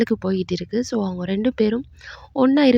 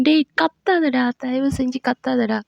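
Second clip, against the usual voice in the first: tag; 2 semitones higher than usual. Retold or imitated. Acted plea to stop shouting.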